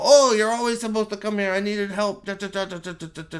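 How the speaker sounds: high, loud whiny mimicry; mock them in a put-on whiny voice; sneering parody of the characters; mocking quote. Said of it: "And then they go".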